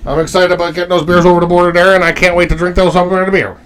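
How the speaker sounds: quick, run-on auctioneer-like delivery; rapid patter without a break. Real, not acted. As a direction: rattle it off a bit like an auctioneer. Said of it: "You sound like an auction-, auctioneer, Nick".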